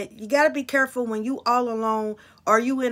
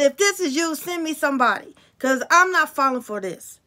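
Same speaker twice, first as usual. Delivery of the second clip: defiant demand; 2 semitones higher, 4 dB louder than usual. Retold or imitated. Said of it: "I said".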